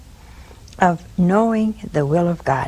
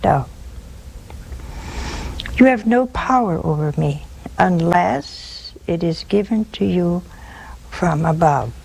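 measured answer with long pauses, sinking lower; Jesus; 3 semitones lower than usual. Retold or imitated. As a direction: answer the ruler calmly, phrase by phrase. Acting out Jesus answering Pilate.

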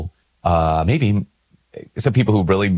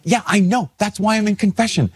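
retold anger; 13 semitones higher than usual. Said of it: "And I was angry".

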